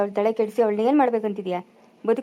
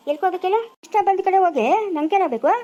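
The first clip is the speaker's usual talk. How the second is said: higher, heated quarrel voice; indignant, raised-pitch retort; angry retort; 6 semitones higher than usual. Acted. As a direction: throw it back in a rising temper. Acted quarrel, ordered to leave.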